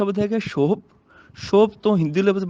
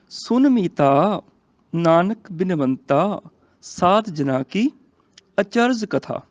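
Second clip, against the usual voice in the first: slow, measured verse reading; scripture recitation; much slower than usual. Shown as a demonstration. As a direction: recite slowly, phrase by phrase. (ਹੌਲੀ, ਠਹਿਰਾਅ ਨਾਲ ਗੁਰਬਾਣੀ ਪਾਠ)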